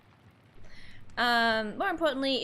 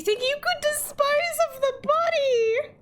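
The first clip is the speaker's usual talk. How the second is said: higher, lightly voiced scheming abbot; 13 semitones higher than usual. Abbot asks Florian about disposing the body, lightly voiced. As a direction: ask it coolly like a plotter.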